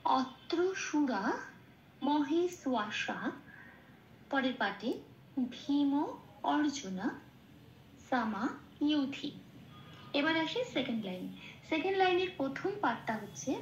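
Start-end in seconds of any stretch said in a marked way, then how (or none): 0.1-9.3 অত্র সুরা মহেশ্বাসা drawn out slowly; slow recitation. Shown as a demonstration. Teacher chanting the full line slowly. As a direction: recite word by word with pauses. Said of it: "তাহলে পুরো লাইনটা কি পেলাম?".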